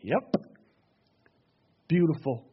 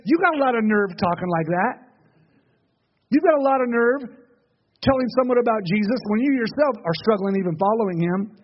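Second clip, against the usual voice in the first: raised, indignant challenge; accusing taunt; 4 semitones higher than usual. Acted. The enemy attacking a struggling believer, accusing. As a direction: act out an accuser scolding the believer.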